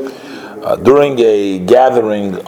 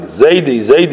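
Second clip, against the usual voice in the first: higher, mild mock yell of Zaidi; child yelling; 5 semitones higher than usual. Little grandson calling his fallen grandfather, mild mock yell. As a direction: call out to grandpa like a small boy.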